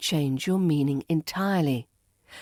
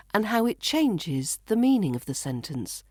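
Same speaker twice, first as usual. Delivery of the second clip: usual speaking voice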